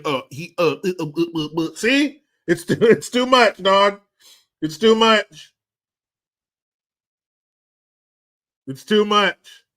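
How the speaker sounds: high, loud exasperated laughter; exasperated laughing. Real, not acted. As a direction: laugh it off as too much to bear.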